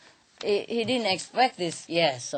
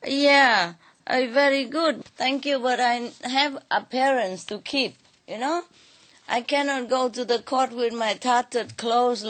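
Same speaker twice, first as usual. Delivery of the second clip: sly excuses; 4 semitones higher than usual. Acted. Nasruddin making excuses.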